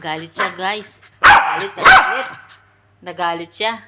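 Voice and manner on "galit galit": teasing sing-song. Real, not acted. Teasing the angry pet.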